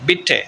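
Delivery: بٹے with a short quick i, as bitte; German short i. Shown as a demonstration. Teacher demonstrating German bitte, short i sound. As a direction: say بٹے with a brief i. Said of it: "short".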